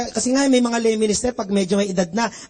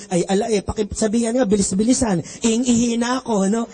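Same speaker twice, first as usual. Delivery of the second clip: Batangueño complaint; 3 semitones lower than usual. Retold or imitated. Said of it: "Sabi niya".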